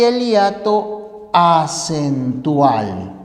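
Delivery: slow, careful naming of the term. Shown as a demonstration. Teacher names the second type for students, slow. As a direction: lay out the second type word by word. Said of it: "existen dos clases".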